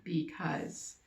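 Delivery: teacher showing the peacock option slowly; slow model sentence. Shown as a demonstration. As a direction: lay it out for kids. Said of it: "or you could say".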